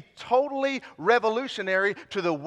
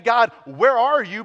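calling out loud; 3 semitones higher, 8 dB louder than usual. Pretend. Contrasted prayer, loud.

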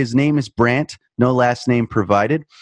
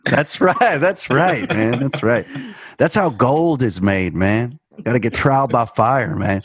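mock tough guy. Mock tough-guy agreeing with cohost.

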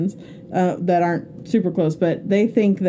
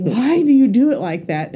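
higher, mock-exasperated challenge; retold exasperated nagging; 4 semitones higher, 4 dB louder than usual. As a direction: act out nagging a spouse. Repeats the nagging question, harder.

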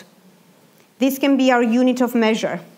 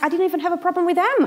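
laughing aside; 8 semitones higher, faster than usual. Retold or imitated. Laughing at herself.

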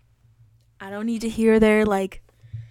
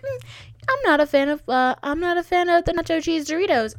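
mock complaint; 8 semitones higher than usual. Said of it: "I make it into a bit".

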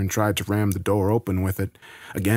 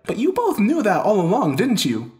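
loud, high-pitched accusation; accusing; 13 semitones higher, 4 dB louder than usual. Acted. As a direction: confront them angrily with what they knew. Accuses both women at gunpoint.

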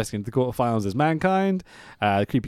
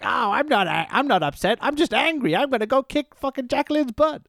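higher mock whiny wrestler promo; mock Sable; 11 semitones higher than usual. Podcaster mocking Sable's backstage promo, higher whiny parody. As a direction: parody an angry diva pouting her lines. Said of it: "She's like".

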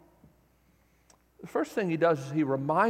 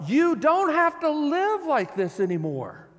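tender invitation; 7 semitones higher than usual. Retold or imitated. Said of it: "the tender invitation".

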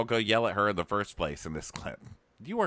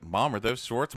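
mock whiny son; 11 semitones higher, slower than usual. Kyle scolding his mom, high voice.

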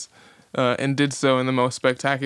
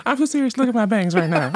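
laughing; 12 semitones higher, faster than usual. Real, not acted. Laughing after diva list.

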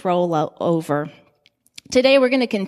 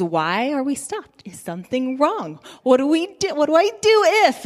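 panicky questions; 4 semitones higher than usual. Retold or imitated. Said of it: "all the questions".

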